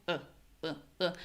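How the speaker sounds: short, soft, low "uh"; a tiny schwa "uh", barely voiced; reduced unclear vowel. Shown as a demonstration. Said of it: "my vowel is unclear".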